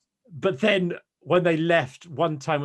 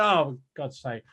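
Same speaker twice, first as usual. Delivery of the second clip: slow groaning mock complaint; mock moan; slower than usual. Mimicking the moaning fan, slow and sulky. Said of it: "You go".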